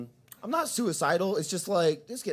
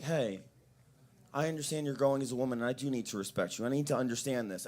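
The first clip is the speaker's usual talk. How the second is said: lower, softer fatherly sincerity; earnest heart-to-heart; 3 semitones lower, 5 dB quieter than usual. Retold or imitated. Dad has a real conversation with daughter, earnest. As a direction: speak gently and earnestly, as in a real talk. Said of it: "like, a real conversation".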